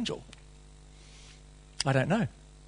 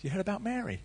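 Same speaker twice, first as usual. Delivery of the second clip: much softer, hushed gossip; village gossip; 4 semitones higher, 11 dB quieter, faster than usual. Retold or imitated. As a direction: lean in and gossip. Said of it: "they're gonna talk".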